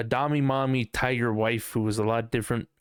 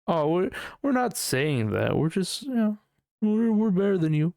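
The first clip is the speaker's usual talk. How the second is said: mocking fake denial; 7 semitones higher than usual. Mocking religious people denying their smugness: higher fake innocence. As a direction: feign innocence, then slip into smug boasting. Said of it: "put it in your face and be like".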